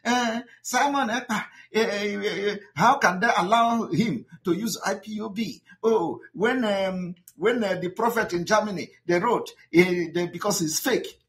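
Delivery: a light impression of a woman ranting online; mimicking a ranting woman. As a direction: parody her flustered ranting. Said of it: "That one was ranting".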